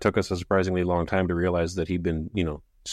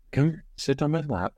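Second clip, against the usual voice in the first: higher-pitched call to a cat; coaxing a pet; 7 semitones higher than usual. Real, not acted. Host to the cat messing with the mouse, coaxing. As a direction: coax the cat gently onto your lap.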